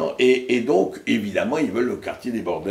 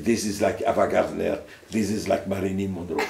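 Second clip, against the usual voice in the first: put-on Arabic-accented English; 3 semitones lower, 4 dB quieter than usual. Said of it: "je ne parlais que anglais avec l'accent arabe".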